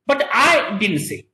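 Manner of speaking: slowed, with I leaned on; stress on I. Shown as a demonstration. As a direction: push on I, not someone else. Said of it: "The meaning of this sentence is".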